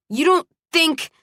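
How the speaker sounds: high, incredulous objection; indignant protest. A narrator's reading. Carried woman argues as she struggles, indignant.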